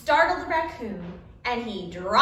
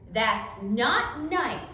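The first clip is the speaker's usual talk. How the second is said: mild scolding mother; 4 dB louder, much slower than usual. Acted. Mother scolds child for poking.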